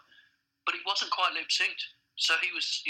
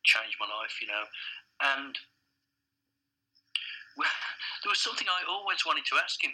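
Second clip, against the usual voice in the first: ordinary talk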